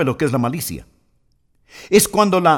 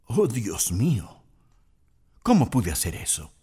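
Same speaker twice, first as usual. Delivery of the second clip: regretful; 6 semitones lower, 8 dB quieter than usual. Retold or imitated. Person looks back at the harm done, softly dismayed. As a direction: murmur it in shocked regret.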